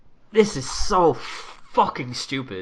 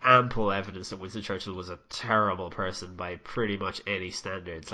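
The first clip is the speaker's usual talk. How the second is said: normal talking voice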